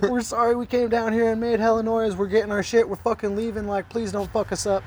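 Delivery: acted-out apologetic begging. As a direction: plead with them, half in jest. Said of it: "we're, like, begging".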